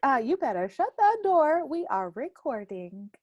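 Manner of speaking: high, loud mock warning to shut the door. Aunt mock-warning the kid about recording, high and loud. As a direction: playfully bark a reminder, then settle. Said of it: "I'm like".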